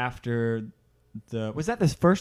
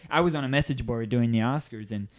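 nerd voice. Retold or imitated. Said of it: "I'm gonna do a nerd voice".

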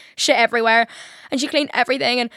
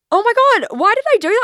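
exasperated; 12 semitones higher, 6 dB louder, faster than usual. Real, not acted. Self-reproach after the blunder.

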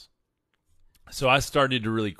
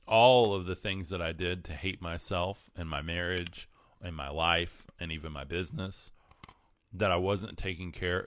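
talking while crunching a cough drop; words through a crunching hard candy. Real, not acted. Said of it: "I'm crunching down on my candy now".

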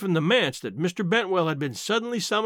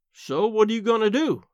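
practical question, pitched a little high; matter-of-fact; 4 semitones higher than usual. A narrator's reading. Aunt questions crying niece after reading letter, matter-of-fact. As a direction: ask it straight, without fuss. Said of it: "in a matter-of-fact tone".

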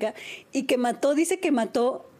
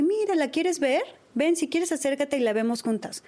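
calm reassuring mom; 2 semitones higher than usual. Retold or imitated. Mom calmly coaxing her daughter toward the spider, gentle. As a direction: coax the scared daughter calmly. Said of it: "yo muy tranquila me paré y le dije".

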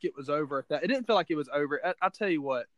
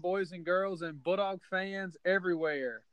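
announcer intro; 3 semitones higher than usual. Acted. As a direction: welcome listeners like a radio host. Podcast show opening.

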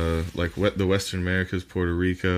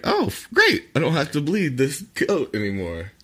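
relieved farmer; 5 semitones higher than usual. Retold or imitated. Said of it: "And they'll be like".

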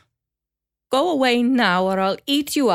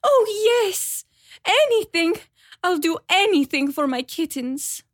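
much higher, louder, eager cat voice; 4 dB louder, slower than usual. Acted. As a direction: grab at the offer for her kittens.

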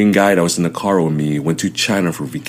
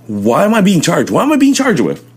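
much higher, pleading questions; can't believe what's happening; retold disbelief; 11 semitones higher than usual. Arrested man asking officers about his charges, high disbelief.

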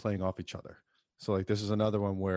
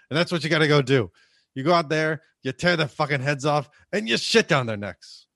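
loud mock locker-room rant, building; imitated coach's speech rising to a shout; acted halftime speech; 4 semitones higher, 8 dB louder than usual. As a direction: fire up the team like a movie coach. Re-enacts a film halftime pep speech.

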